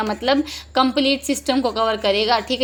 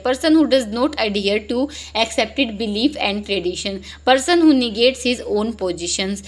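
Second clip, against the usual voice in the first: slow reading; much slower than usual. Shown as a demonstration. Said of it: "reading options slowly".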